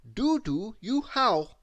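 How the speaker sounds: a prim how-do-you-do; polite greeting. A narrator's reading. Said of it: "instead of".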